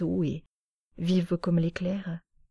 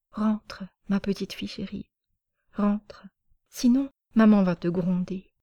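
murmured. Acted. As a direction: send her home in a gentle murmur. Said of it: "et murmura".

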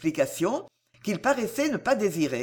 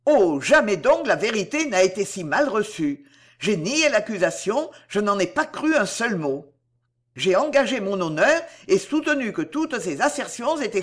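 louder, heated protest; a lightly raised, indignant voice; beside himself; 3 dB louder than usual. Acted. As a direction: hurl the denial in outrage. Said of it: "tout à fait hors de lui-même".

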